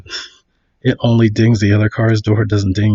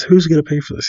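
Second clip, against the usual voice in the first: mild mock angry demand, higher pitched; retold yelling; 5 semitones higher, faster than usual. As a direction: act out the irate driver without shouting. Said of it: "he's yelling at her".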